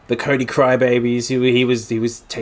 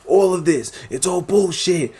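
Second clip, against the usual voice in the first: raised, higher-pitched mock rant; retold outrage; 6 semitones higher than usual. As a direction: protest it like an outraged wrestler. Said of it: "was going off his head".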